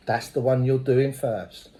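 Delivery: a hint of a stern sponsor; sponsor's verdict. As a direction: lay down the law, slow and low. Sponsor's blunt verdict retold.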